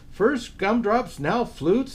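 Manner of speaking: a mild grumble of a Santa; exasperated Santa. Acted. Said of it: "thought Santa".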